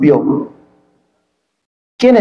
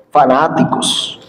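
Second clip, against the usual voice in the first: lower, mocking voice of the scoffers; mocking critics; 6 semitones lower, 4 dB quieter than usual. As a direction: sneer it like the critics would.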